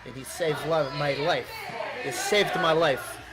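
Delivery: put-on halting Eastern European accent. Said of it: "default Eastern European accent".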